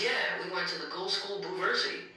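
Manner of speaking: high, put-on trickster ghost voice; Beetlejuice voice. A narrator's reading. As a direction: play the sly ghost bragging. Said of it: "Beetlejuice replies".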